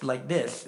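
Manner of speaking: lisped s on "this"; lisping imitation. Preacher recalling his first meeting with a friend, lisping. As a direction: imitate a lisp on "this". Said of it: "I didn't know he lisped".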